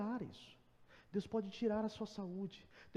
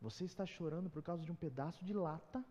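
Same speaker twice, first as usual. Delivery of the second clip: God's gentle rebuke; 6 dB quieter than usual. Retold or imitated. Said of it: "senti o Senhor falar comigo".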